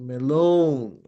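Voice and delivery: "melon" arched up and down on the long vowel; drawn circumflex accent on "melon"; rise then fall. Shown as a demonstration. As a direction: curve the pitch over "melon". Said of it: "pataas and then pababa".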